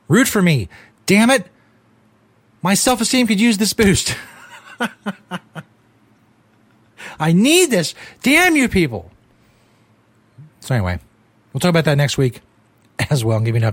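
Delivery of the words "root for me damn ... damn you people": laughing plea. Real, not acted. Jokingly begs listeners for support.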